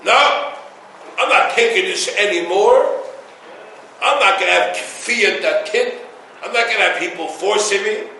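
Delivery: lightly voiced rebel, rising and pushy; defiant rebel. Rabbi imitating a rebel who refuses to be forced. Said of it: "another person who says".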